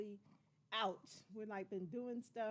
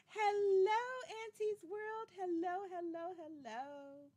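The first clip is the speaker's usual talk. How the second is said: excited hello; 6 semitones higher, 4 dB louder, slower than usual. Real, not acted. Greeting a viewer on live stream.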